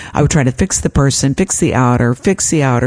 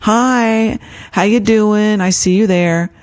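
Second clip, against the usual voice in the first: kind greeting; 6 semitones higher, slower than usual. Shown as a demonstration. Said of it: "I greet it with kindness".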